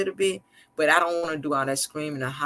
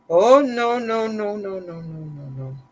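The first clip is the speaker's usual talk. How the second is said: mock refusal; 4 semitones higher, 3 dB louder, slower than usual. Voicing husband refusing money.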